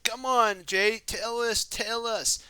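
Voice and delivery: high, loud eager urging. Acted. Kai urging Jay to tell them the plan, loud and eager. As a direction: push Jay to spit out the plan. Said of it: "He's like".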